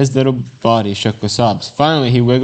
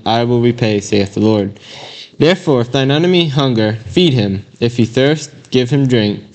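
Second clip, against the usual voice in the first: measured, solemn Bible reading; lightly raised King James reading voice; scripture reading. Acted. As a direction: read the verses like from the pulpit. Reads scripture aloud.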